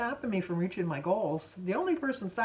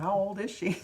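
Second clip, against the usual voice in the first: whispered. Retold or imitated. Imagining the young clerk's private thought, whispered.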